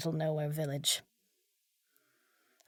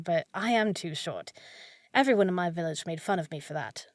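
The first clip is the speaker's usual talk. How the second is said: ordinary talk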